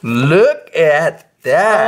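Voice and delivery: very slow, drawn-out wonder; amazed showing-off. Real, not acted. Showing child the new shoes.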